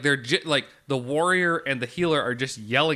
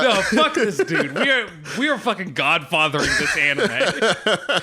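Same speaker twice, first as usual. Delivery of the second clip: laughing; 3 semitones higher, 4 dB louder than usual. Real, not acted. Laughing at the show's plot.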